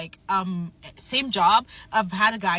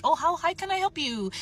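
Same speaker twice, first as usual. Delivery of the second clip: bubbly greeting; 5 semitones higher than usual. Retold or imitated. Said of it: "being my normal bubbly, smiley self".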